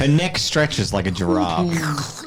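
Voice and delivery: amused drawn-out joke through laughter; laughing, slow. Real, not acted. Player jokes that the girl is so tall, laughing. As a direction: stretch it out, giggling.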